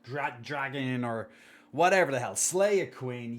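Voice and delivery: bright, loud cheer of slay it. Real, not acted. Cheering on a chatter off to beat procrastination, loud. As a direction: hype a friend up to slay it.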